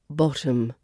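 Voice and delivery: "bottom" ending in an unstressed -təm; schwa in bottom. Shown as a demonstration. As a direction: reduce the final O of "bottom" to uh. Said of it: "the final O, is the schwa".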